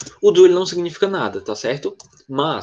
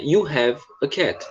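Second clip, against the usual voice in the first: slow example read; 3 dB quieter, much slower than usual. Shown as a demonstration. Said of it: "Nessa primeira fase".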